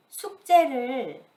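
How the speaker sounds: 숙제를 repeated alone, loud and punched; emphasized noun. Shown as a demonstration. Mother repeating 숙제를 to her child, strong stress. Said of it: "When you emphasize this greatly".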